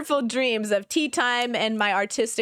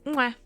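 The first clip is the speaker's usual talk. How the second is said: goodnight kiss; 2 semitones higher than usual. Acted. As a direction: blow a playful kiss into the mic. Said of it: "Here's your good night kiss".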